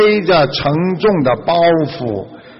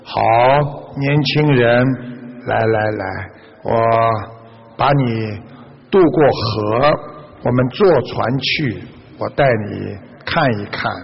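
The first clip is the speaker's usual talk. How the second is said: softer, lower, unhurried coaxing; kindly master; 5 semitones lower, 4 dB quieter than usual. Acted. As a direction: gently invite the young man along, voice lowered. Master kindly invites young man along. (温和低沉地招呼年轻人)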